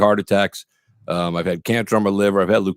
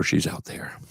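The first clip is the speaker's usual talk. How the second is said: conspiratorial whisper; 3 semitones lower, 9 dB quieter, much slower than usual. Real, not acted. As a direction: whisper so the wife can't hear. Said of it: "I have to whisper".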